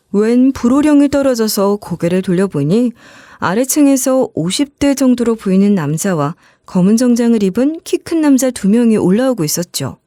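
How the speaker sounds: ordinary delivery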